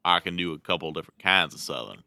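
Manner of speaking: lightly voiced Southern cowboy accent. Shown as a demonstration. Showing a friend they can do Southern, light cowboy accent. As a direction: answer with a hint of cowboy Southern. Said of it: "about what I was doing there".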